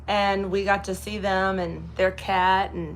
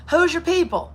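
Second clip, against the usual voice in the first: high, drawn Kentucky lady asking about kin; Kentucky florist; 9 semitones higher, 3 dB louder than usual. Retold or imitated. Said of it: "She said".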